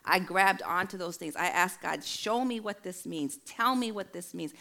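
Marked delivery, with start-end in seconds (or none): 2.0-4.5 higher, insistent pleading; retold urgent plea. Afraid woman asking God about scriptures, urgent pleading. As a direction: press each request as a re-enacted prayer.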